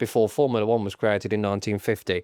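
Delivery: low, nasal know-it-all delivery; full nasal voice. Acted. Podcaster showing off Formula One knowledge, full nasal voice. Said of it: "go full nasal voice".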